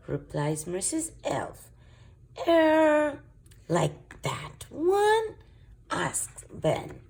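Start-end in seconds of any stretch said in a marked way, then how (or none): 2.5-5.4 high question. Acted.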